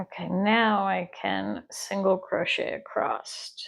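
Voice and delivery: whispered aside to herself. Real, not acted. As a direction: breathe it out with no voice. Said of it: "whispered note while crocheting".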